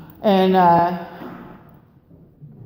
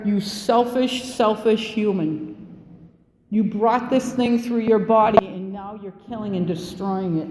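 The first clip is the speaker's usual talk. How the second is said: accusing inner voice. Retold or imitated. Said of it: "I heard it that loud".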